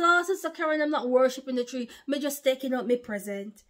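mildly defensive mock objection; imagined objector. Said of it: "Now you might say".

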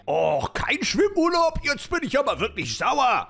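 disappointed whiny outburst; hammed-up grumpy complaint; mock-angry sulking. Companion disappointed about no swim.

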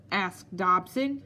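slow, incredulous echo rising on "Dobson"; indignant cry. Acted. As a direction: throw the name back in disbelief. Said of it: "he cried".

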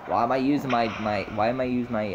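put-on light, accidental Australian accent. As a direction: slip into a mild Australian accent. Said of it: "that's an Australian accent".

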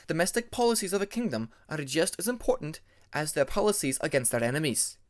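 a proud dragoness setting the record straight; stern Ice Wing dragoness. Acted. Ermine's formal voice.

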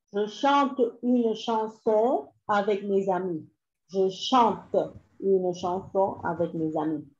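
slow but connected French sentence; dictation repeat. Shown as a demonstration. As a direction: read the whole sentence back slowly.

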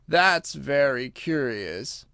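slow, sighing wonder; slow Mock Turtle drawl. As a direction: draw it out after a long breath. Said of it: "drew a long breath and said".

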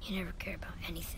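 fast, soft whispered grumble under his breath; muttered jab. Acted. Son to stern father, resentful under-the-breath mutter. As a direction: complain so he won't quite hear.

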